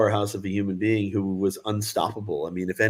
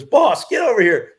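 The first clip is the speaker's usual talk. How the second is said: calling the boss; 10 semitones higher, 8 dB louder than usual. Retold or imitated. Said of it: "he goes".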